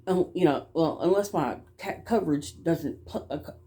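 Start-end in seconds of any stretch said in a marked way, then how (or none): 1.8-3.6 stuttering. Real, not acted. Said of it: "I stutter too".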